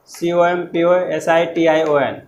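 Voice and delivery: each letter of legible spelled out slowly; spelling out letters. Shown as a demonstration. Teacher spelling a word for students, letter by letter. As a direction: dictate L E जी I B L E letter by letter. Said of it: "इसका spelling ठीक है".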